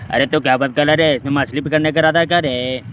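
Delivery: a light hint of a Johnny Lever voice; Johnny Lever impression. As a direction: mimic teasing a villager about fishing, lightly voiced comic. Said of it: "तो Johnny लीवर क्या बोलते हैं".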